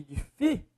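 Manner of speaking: "difíceis" broken after a held FÍ; di-FÍ-ceis, pausing after the strong syllable; stress on FÍ. Shown as a demonstration. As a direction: lean on the middle syllable FÍ of "difíceis". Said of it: "é o fi".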